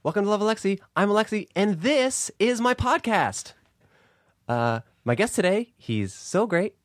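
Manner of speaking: high, drawn-out host intro voice; Alexi Wasser impression. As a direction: mimic an over-enthused podcast host opening the show. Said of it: "Do an impression of me".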